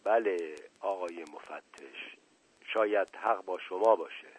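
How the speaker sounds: a stifled, beaten confession; muffled voice. Acted. Asadollah confessing to the inspector in a muffled, subdued voice.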